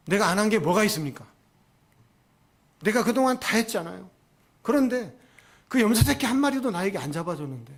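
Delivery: acted indignant self-defence; angry protest. Elder son confronting his father over the fatted calf, indignant. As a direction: argue back like a wronged son. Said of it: "막 화를 내는 거죠".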